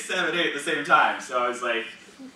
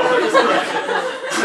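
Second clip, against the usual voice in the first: laughing; 7 dB louder, much slower than usual. Real, not acted. Laughing about shock.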